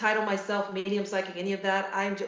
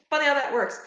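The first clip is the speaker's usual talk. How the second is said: laughing; 5 semitones higher, 3 dB louder than usual. Real, not acted. Repeated through laughter.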